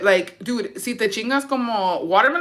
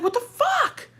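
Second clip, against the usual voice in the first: retold shock; slower than usual. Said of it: "And I was like".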